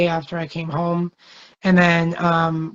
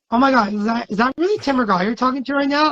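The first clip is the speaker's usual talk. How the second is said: excited fans; 6 semitones higher, faster than usual. Retold or imitated. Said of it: "all the fans on the plane were like".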